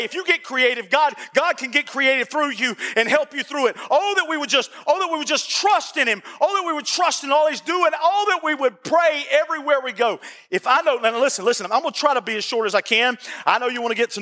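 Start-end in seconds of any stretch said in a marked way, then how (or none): 3.9-10.2 pleading sermon refrain; rhythmic, yearning preacher's cadence; impassioned preaching. Real, not acted. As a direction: exhort the congregation, building on each repeat. Preacher's repeated exhortation.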